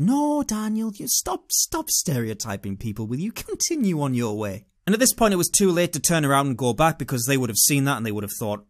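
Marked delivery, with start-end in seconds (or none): 0.0-4.7 mock-reproving conscience; voice of unreason. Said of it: "the voice of unreason came in and said".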